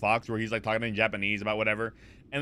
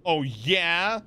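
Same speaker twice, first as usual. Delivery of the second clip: challenge; 5 semitones higher than usual. Real, not acted. Challenged that his yelling is quiet.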